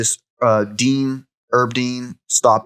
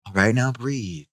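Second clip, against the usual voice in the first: yoga instructor. Retold or imitated. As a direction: soothe like a yoga class. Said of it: "his yoga instructor".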